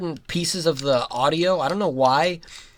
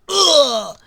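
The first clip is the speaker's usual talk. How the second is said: pained grunt; 8 semitones higher, 5 dB louder than usual. Retold or imitated. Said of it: "Raph is like".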